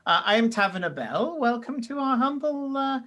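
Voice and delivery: apologetic, then welcoming tiefling host; a touch of a hospitable innkeeper, faltering over words; lightly voiced tavern keeper. Tavern keeper welcomes strangers to the village, lightly voiced, apologetic host.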